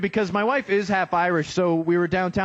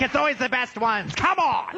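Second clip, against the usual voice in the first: higher, hammed-up disappointed fan; mock angry guy; 7 semitones higher than usual. One guy in the crowd complaining the best ones are married, high mock whine. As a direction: whine it like a sore loser. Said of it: "he's angry".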